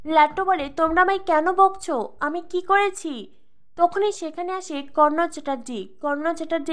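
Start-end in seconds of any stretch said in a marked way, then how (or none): 0.7-3.3 put-on frightened child crying. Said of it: "লাট্টু বেশ ভয় পেয়ে কাঁদতে থাকে".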